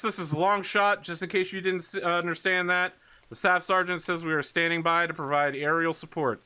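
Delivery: patiently translate for the listener over radio; radio interpreter. Acted. Longshot translating the sergeant over radio.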